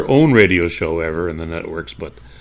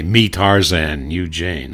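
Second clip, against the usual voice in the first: caveman Tarzan; 2 semitones lower, slower than usual. Retold or imitated. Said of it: "He would never say".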